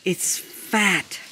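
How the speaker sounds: ordinary delivery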